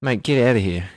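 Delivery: hammed-up Australian accent; joking Australian twang. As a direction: put on a playful Aussie accent. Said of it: "I'm really losing the Australian accent".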